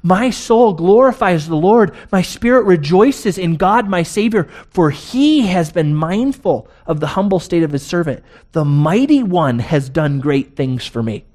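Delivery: Mary glorifying God with joy; joyful praise. Retold or imitated. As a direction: lift it up like a song of praise. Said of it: "Mary says".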